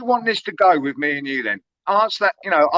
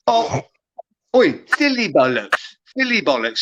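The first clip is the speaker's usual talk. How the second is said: mock camp. Rival mimicking a panel member's pet insult, mock camp. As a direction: parrot it back in mock camp. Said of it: "That sounded so fucking camp".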